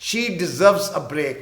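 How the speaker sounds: very slow, clear teacher's read; slow example line; slow repeat. Shown as a demonstration. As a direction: repeat it slowly for learners. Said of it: "کوئی کہتا ہے اسے آرام چاہیے".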